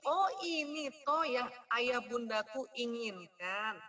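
lightly voiced child, slow; a hint of an understanding child. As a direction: realize it like a child. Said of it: "Jadi anaknya ngerti".

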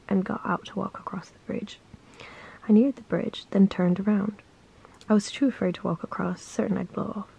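steady, earnest storytelling read; story reading. Acted. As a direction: read the bridge story calmly to the viewer. Reads the daily story aloud.

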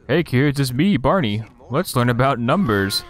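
lightly voiced cheery kids' host; a hint of a purple dinosaur; Barney voice. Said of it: "It's Barney the dinosaur".

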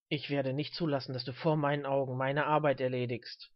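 low, contained snarl; lightly voiced stern old man. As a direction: scold him from down in your range. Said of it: "fauchte der alte Mann".

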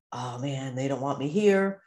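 low, mildly deflated inner voice; dejected self-talk. Acted. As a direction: act out feeling left out.

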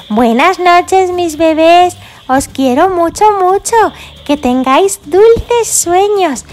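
slow, tender goodnight to the babies; gentle bedtime lullaby tone. Pretend. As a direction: tuck them in with your voice. Tucking the dolls in.

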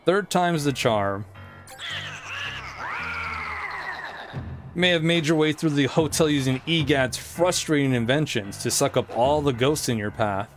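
lightly voiced gloating ghost king; a hint of a smug villain; King Boo voice. Voices King Boo's dialogue.

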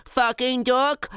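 put-on high, slow babyish babble; high-pitched dopey baby talk; baby idiot voice. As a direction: parrot it like a dim baby. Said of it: "like a baby idiot".

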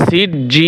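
সিজ্জিন with a long drawn "jjiii" closing on n; long madd, bare noon. Shown as a demonstration. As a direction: stretch the last vowel of সিজ্জিন, stop on n. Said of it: "শেষে শুধু নুন উচ্চারণ হবে". (লম্বা টানে সিজ্জিন, শেষে শুধু নুন)

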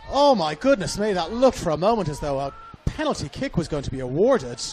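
astonished outburst. Real, not acted. Commentator reacting to a possible penalty, astonished. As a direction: exclaim at a near penalty, staying loud.

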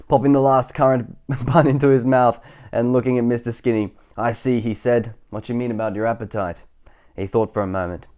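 animated telling with lightly voiced doctor; story narration. A narrator's reading. Reader telling of Doctor Plump's verdict, storybook narration. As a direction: tell it with relish, easing down.

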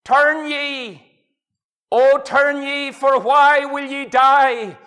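slow loud preacher's cry; cried out at full voice. Retold or imitated. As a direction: call the verse out across the street, drawn out. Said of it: "At the top of my voice, I cried out".

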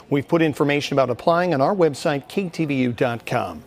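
polished closing report delivery; news sign-off read. Acted. Reporter closing his live report for viewers in a news read. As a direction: wrap the story and sign off.

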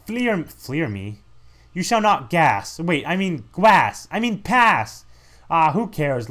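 slow, drawn-out boast; a hint of a swollen-tongue villain; lightly voiced slurring master. Gate master challenging the player, slow slurred boast.

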